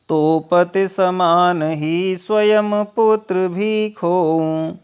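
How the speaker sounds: slow, drawn-out verse recital; poem recitation. Acted. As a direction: recite the verse slowly, weighing each word. Teacher recites Kaikeyi's verse. (धीमा, खिंचा हुआ काव्य पाठ)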